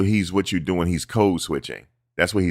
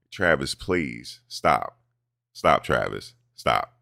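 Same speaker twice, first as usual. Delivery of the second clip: drawn-out, lower exasperated please stop; slow it down, fed up; 4 semitones lower, 3 dB quieter, much slower than usual. Real, not acted. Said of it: "pleading with Travis".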